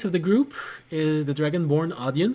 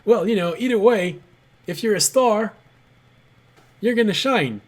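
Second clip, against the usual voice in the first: a teasing line pitched well higher; teasing party member; 7 semitones higher than usual. Retold or imitated. A party member teases the leaving bard, pitched high. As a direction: needle the departing hero, mock-wise. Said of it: "this comment from one of the person in your party".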